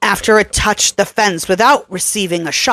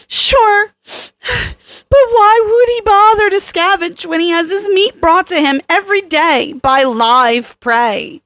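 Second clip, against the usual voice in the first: put-on higher, insistent young woman arguing, faster at the start; Kelly, urgent; 11 semitones higher than usual. A narrator's reading. Kelly lecturing Tarosh about the predator's nature, urgent. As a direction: press the point hard and quick.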